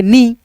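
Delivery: नी with the vowel stretched long; long नी, vowel pulled out; drawn-out long ii. Shown as a demonstration. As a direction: hold the ई in नी a little longer. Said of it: "थोड़ा सा खींच देंगे".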